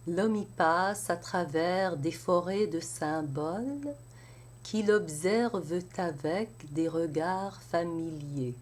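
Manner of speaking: measured poetic reading of the stanza; French verse recitation. Shown as a demonstration. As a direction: recite the whole stanza with care. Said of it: "let's try it all together".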